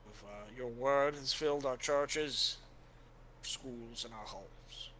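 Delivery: a believer voicing shaken faith; troubled warrior. Helwyn telling Father his faith is shaken, grave and earnest.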